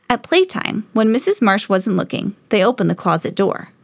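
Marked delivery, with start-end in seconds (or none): none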